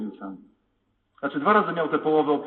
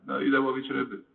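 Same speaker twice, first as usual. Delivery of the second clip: resigned. Retold or imitated. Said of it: "głosem pewnym z rezygnacji".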